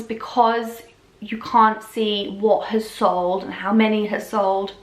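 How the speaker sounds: slightly hoarse, voice giving out; hoarse, losing your voice a bit. Real, not acted. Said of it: "I think I'm losing my voice".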